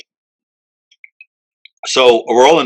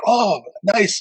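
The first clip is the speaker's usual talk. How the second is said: imitating Roland; 9 semitones higher, 4 dB quieter than usual. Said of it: "he's like".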